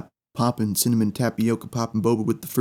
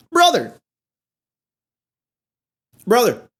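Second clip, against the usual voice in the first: exasperated cry; 10 semitones higher than usual. Retold or imitated. Customer fed up with the cashier, exasperated. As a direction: throw your hands up in disbelief.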